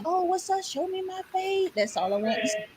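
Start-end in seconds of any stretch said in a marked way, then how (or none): 0.0-1.7 mock challenge. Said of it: "They was like".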